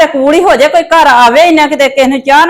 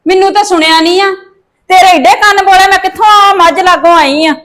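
scolding; 5 semitones higher than usual. Acted. Scolding argument over the door.

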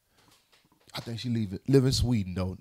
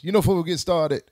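slow, loud radio host voice; 4 semitones higher, 11 dB louder, slower than usual. Acted. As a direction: stretch it like a DJ. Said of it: "get my radio voice".

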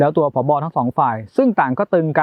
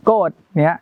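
put-on child saying angry; 3 semitones higher than usual. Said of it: "อีกฝ่ายก็จะบอกว่าโกรธ".

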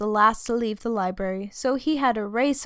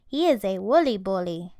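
trembling; 2 semitones lower than usual. Acted.

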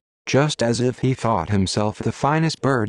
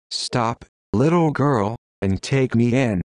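squeaky tone. Acted. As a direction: squeak it out, calling from the bank. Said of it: "in a squeaky tone".

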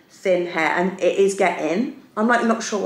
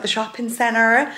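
put-on fast, casual American accent; slower than usual. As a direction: slip into an American accent without noticing. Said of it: "Why I've put my American accent on for that".

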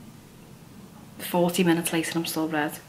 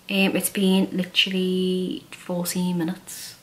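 face covered in wet sheet; talking with stiff cheeks; wearing a sheet face mask. Real, not acted. Seen 3: Sheet mask covers face throughout; lips exposed; peeled off at 18.9.

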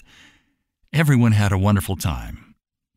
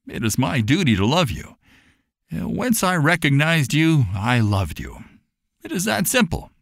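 tender reassurance; 3 semitones higher than usual. Acted. Mister Farnsworth tells Papa he is family, tender and sincere. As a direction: reassure him gently, like family. Farnsworth speaks of brotherly love.

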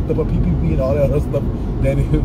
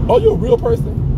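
much higher pitched, teasing question; mock suspicious squeal. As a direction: squeak it at the bot like you doubt it's real. Teasing a suspected bot.

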